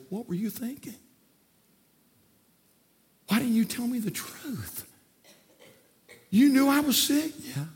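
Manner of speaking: indignant confrontation. Retold or imitated. Patient to doctor who hid the tumor, rising indignant demands. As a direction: confront him with hurt and outrage.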